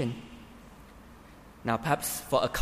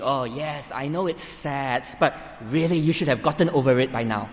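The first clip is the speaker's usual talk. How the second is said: dismissive. Pretend. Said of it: "you could be communicating".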